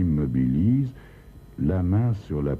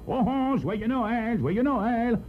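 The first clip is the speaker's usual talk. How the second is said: booming Santa greeting; slower than usual. A narrator's reading. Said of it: "de retentissants".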